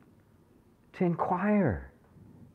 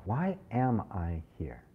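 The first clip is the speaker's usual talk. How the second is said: sincere asking; 6 dB quieter, slower than usual. Shown as a demonstration. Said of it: "seriously ask that question of yourself".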